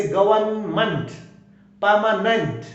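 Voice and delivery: गवर्नमेंट and परमानेंट ending in "munt" and "nunt"; weak endings. Shown as a demonstration. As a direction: reduce the last vowel of गवर्नमेंट and परमानेंट. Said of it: "last में वीक sound". (गवर्नमेंट, परमानेंट के अंत में हल्का "अ" स्वर)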